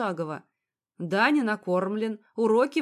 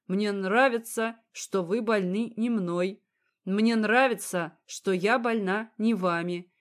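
poem recital. A narrator's reading.

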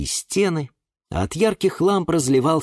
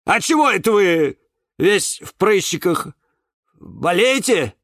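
high, loud huffy comeback; offended retort; 12 semitones higher, 5 dB louder than usual. A narrator's reading. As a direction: hit back, stung, pitched way up. Offended cactus hits back. (обиженная громкая отповедь)

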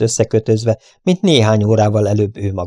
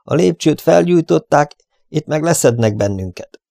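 cursing; 6 semitones higher than usual. Acted. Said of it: "szitkozódott".

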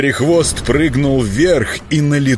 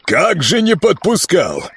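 businesslike; 6 semitones higher than usual. Acted. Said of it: "деловито продолжил допрос".

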